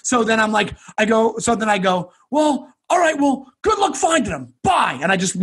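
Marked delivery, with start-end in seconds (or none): 2.3-5.0 lifted, offhand mock goodbye; breezy sign-off. Freed man taking leave of the gang, suddenly breezy. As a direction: switch to a light, higher farewell. Abrupt cheery exit from the gang.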